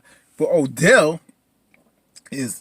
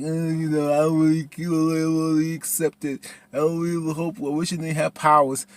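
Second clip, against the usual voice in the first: lightly put-on monotone complaint; mocking Lynn's reluctance; 2 semitones higher than usual. Imitating Lynn refusing to accept powers, mild mock complaint. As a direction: drone it in mild mockery.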